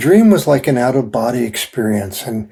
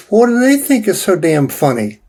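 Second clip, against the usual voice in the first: higher, incredulous and put out; retold indignant question; 7 semitones higher than usual. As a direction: throw the question back, offended. Retelling indignant reply to psychic.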